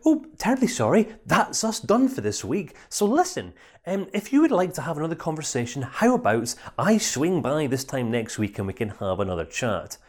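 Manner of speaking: chirpy professional brush-off; polite counsellor. Acted. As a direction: sound like a counsellor apologising and wrapping up. Counsellor ends the session politely.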